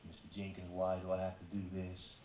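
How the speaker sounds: ordinary talk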